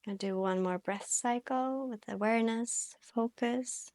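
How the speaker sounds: calm yoga instruction with long pauses; guided meditation. Real, not acted. Yoga teacher guiding students into their breath, calm guided meditation. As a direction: guide gently, leaving space to breathe between phrases.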